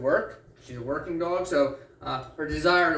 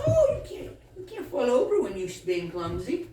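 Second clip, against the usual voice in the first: laughing; 7 semitones higher than usual. Real, not acted. Dog falls over during spin.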